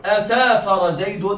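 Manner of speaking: "أسافر زيد؟" langsam, mit fragend steigendem Schluss; slow questioning repeat. Shown as a demonstration. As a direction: ask "أسافر زيد؟" slowly and let it rise at the end. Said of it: "أقول لك".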